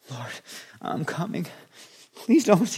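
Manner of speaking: timid, pleading voice rising high; cowering. Pretend. Preacher mimicking a fearful believer cowering before God, mock timid plea. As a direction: shrink back like an abused dog. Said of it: "like a dog that's been abused".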